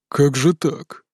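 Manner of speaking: ordinary delivery, nothing marked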